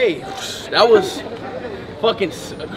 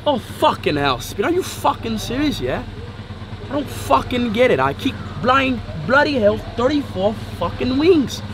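mock Scottish accent, lightly done; a cursing, playful go at a Scottish accent; 3 semitones higher, 4 dB quieter than usual. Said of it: "Yeah, it's Scotland".

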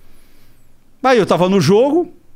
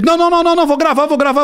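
imitating Arthur; 7 semitones higher, faster than usual. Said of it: "E aí, Arthur, me conta aí".

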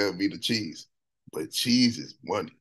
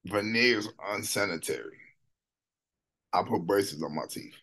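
quiet quote; 6 dB quieter than usual. Retold or imitated. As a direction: read it back softly. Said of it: "He said".

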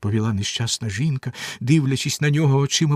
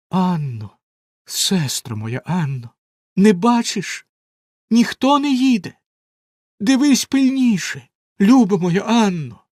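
high, louder frightened asking; anxious calling; 7 semitones higher, 5 dB louder than usual. A narrator's reading. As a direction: call up to her with rising fear. Wife anxiously asks sister.

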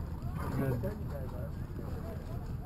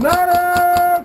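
man down shout; 5 dB louder than usual. Real, not acted. Calling for medic.

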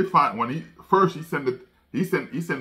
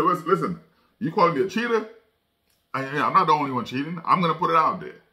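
higher, heated retelling of his defiance; retold upset outburst; 5 semitones higher, faster than usual. Coach firing back at the league, mock heated and pitched up.

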